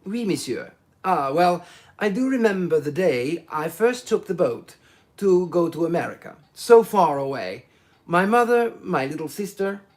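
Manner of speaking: lightly voiced chatty Italian, swelling with nostalgia; a hint of an eager Italian reminiscing; voluble Italian salesman. Foscarelli recalling leaving his mother, lightly voiced eager Italian.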